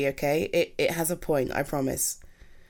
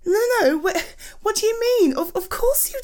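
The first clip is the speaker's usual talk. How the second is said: alarmed protest; 11 semitones higher, 3 dB louder than usual. Acted. Partner doubts themself.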